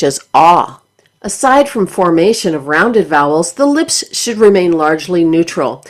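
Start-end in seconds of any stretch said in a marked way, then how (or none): 0.3-0.8 "ah" with the tongue flattened; "ah" as an open, flat-tongued vowel; vowel demonstration. Shown as a demonstration. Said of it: "flatten for vowels such".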